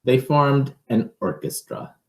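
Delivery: put-on lively read-aloud for children; picture book reading. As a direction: read it to a child, with a storyteller's lilt.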